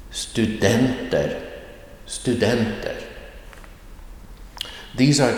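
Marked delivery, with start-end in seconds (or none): 0.1-1.4 "studenter" slow, with the tone dropping from a stressed "den"; falling tone accent. Shown as a demonstration. Teacher gives another example word, slow falling tone on "studenter". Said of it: "a falling tone or a dropping tone". 2.1-3.0 "Studenter" with the tone dropping from a stressed "den"; falling tone accent. Shown as a demonstration. Teacher repeats another example word, falling tone on "Studenter". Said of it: "a falling tone or a dropping tone".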